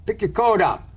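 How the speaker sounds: testy parental command; nasty tone. Acted. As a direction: order a child about with mild nastiness. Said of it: "my tone was nasty".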